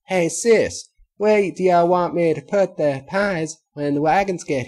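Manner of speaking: put-on high, loud little girl voice; eager kid calling to her sister; young filly voice. A narrator's reading. Apple Bloom's voice.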